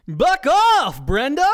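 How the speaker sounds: loud, high, frantic yell; panicked shout. Acted. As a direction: shout it in full panic into the phone. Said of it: "Tim shouts with panic".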